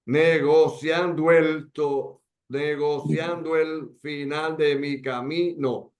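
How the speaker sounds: slow, "negociando el" merged as one beat; counting by sound. Shown as a demonstration. Teacher counting morae aloud for students, slow and linked. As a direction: count the verse slowly by its sound. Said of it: "a partir del sonido".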